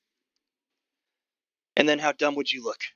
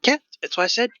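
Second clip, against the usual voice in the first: curt goblin, high and loud; gruff old goblin; 12 semitones higher, 5 dB louder than usual. Acted. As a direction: answer as an impatient old goblin ticket seller. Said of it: "Sort of this gruff old goblin".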